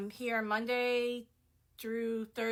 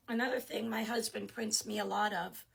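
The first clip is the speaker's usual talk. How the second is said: real, failing voice, barely voiced; losing voice. Real, not acted. Showing her prints to followers, voice breaking into whisper. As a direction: voice giving out into a whisper. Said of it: "I'm losing my voice today".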